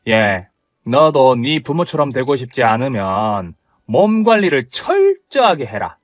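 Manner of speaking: put-on a cold, sneering older mother-in-law; blunt mother-in-law. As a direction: look down on her and scold. Mother-in-law scolds daughter-in-law.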